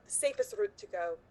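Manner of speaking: put-on character line in a Scottish accent. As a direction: give it a Scottish lilt. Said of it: "did you do a Scottish accent?".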